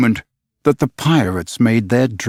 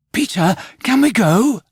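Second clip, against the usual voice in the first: put-on higher, begging children's plea; imploring cry; 10 semitones higher than usual. A narrator's reading. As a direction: plead with Peter as a group of boys. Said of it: "they all cried imploringly".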